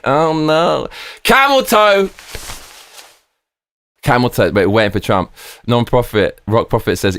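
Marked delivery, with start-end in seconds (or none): 1.2-2.1 mock squeal. Mock exclamation at chat name.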